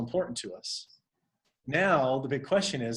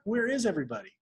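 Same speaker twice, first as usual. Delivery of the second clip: higher, mock-frustrated question; mildly frustrated; 5 semitones higher, faster than usual. Coach voicing someone whose call has few attendees, mildly frustrated. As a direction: act out mild exasperation. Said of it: "you're kinda frustrated".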